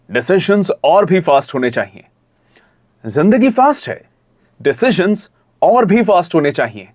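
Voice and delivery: punchy ad read in short phrases; fast touch. Shown as a demonstration. Coach modelling the student's ad lines, fast touch. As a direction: lift "फास्ट" and keep the energy up. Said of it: "फास्ट वाला touch लेके आओ".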